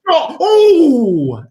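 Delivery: sudden high, loud gasped oh oh; real thrill at a near goal; excited near-miss cry. Real, not acted. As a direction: yelp as the shot nearly goes in. Near goal while greeting Amy.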